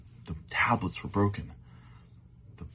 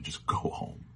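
soft whisper; 3 dB quieter, slower than usual. Shown as a demonstration. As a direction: repeat it gently as a whisper. Gentle repeat of advice.

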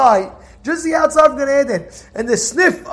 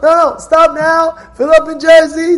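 insistent order; 5 semitones higher, 6 dB louder than usual. Retold or imitated. Driver urging his passenger to fill up in Jersey, insistent. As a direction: stop him before he fills up.

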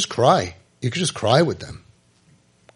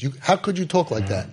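mild reproach; 3 dB quieter than usual. Retold or imitated. Imitating people scolding the cursing kid.

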